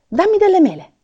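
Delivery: voce d'elfo molto più acuta e forte, di slancio; l'elfo folgorato da un'idea, esclama; elfo entusiasta. Acted. (l'elfo chiede le mele a Babbo Natale, acuto e squillante)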